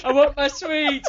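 high-pitched mock child's tantrum wail; demanding child. Dad imitating his daughter struggling in the car seat, wailing. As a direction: imitate a small child begging for confiscated sweets. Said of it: "struggling like crazy".

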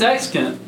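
"accent" tripped over mid-sentence; fumbled word. Real, not acted. Asking for ratings, fumbling the word "accent". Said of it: "I can't talk".

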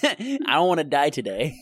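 laughing plea. Retold or imitated. Friend voicing Adrian's plea.

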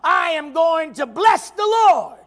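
loud, slow preaching shout; shouted declaration. Acted. Preacher telling the flesh no, shouted then hushed. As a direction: cry it out to the Lord, then drop to a hush. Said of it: "you crucify your flesh and say".

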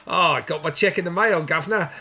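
a bad, lightly put-on Australian accent; terrible Australian accent. Host imitating the Wake in Fright teacher in a bad Australian accent. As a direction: play the Australian accent badly, for a laugh. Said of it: "that's a terrible Australian accent".

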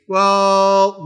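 drawn-out, level "well"; a long, hedging schoolkid "well"; mock defiance. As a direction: imitate a kid lightly testing the rules. Voicing kids defying the teacher.

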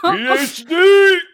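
slow, high, loud spelled-out shout; shouted punchline. Real, not acted. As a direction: belt out each letter.

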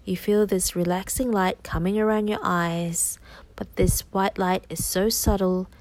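hypnosis voice. Acted. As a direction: soothe the listener into trance. Guided hypnosis continues.

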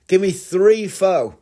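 high, slow, insistent food order. Acted. Acted, increasingly desperate food order.

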